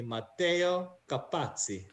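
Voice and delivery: Italian pronunciation, Capazzi with a "ts"; careful Italian model of the name; exact Italian. Shown as a demonstration. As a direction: say the full name as an Italian would. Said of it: "be exact to Italian".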